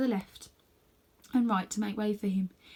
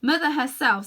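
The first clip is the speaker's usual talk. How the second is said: words forced out; 5 semitones higher, 7 dB louder than usual. A narrator's reading. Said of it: "getting the words out with difficulty".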